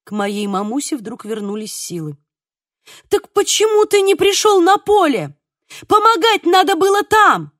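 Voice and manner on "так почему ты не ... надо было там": higher, louder reproach; scolding. A narrator's reading. Mother berates father for skipping the field, scolding loudly.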